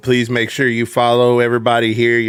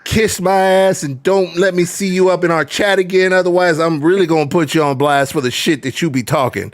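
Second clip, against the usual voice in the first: higher, heated wrestling-promo rant; mock trash talk; 5 semitones higher than usual. Guest calls out a troll in chat, heated promo rant. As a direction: call him out like a heel cutting a promo.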